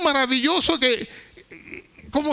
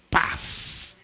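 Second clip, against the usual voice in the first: whispered peace; 3 dB quieter than usual. Acted. Preacher breathes out the word peace.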